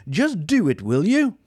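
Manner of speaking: fed-up shout. Acted. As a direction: yell at the robot. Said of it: "he shouted".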